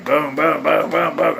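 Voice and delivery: quick run of booming hits; imitated wrestling thuds. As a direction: mimic body slams with your mouth. Fakes a wrestling flashback.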